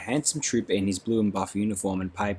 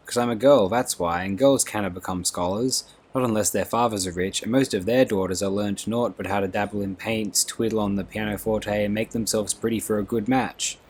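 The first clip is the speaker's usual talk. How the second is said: put-on angry girl. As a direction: rail against the injustice to girls. Beatty voiced in the story.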